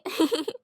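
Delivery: high, soft little giggle; happy giggle. Acted. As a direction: giggle with delight. Happy about keeping pet.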